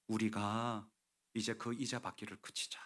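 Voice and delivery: soft, low, halting quote; hushed, humble proposal; subdued appeal. Acted. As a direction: let it sink softly after a pause. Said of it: "이렇게 얘기를 해요".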